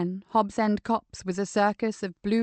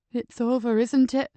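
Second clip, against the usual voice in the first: shaky with emotion; 2 semitones higher than usual. Acted. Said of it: "His voice shook with emotion".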